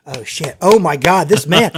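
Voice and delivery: loud, stunned burst of awe; awed excitement. Retold or imitated. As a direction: blurt it out, suddenly won over. Won over by the speech.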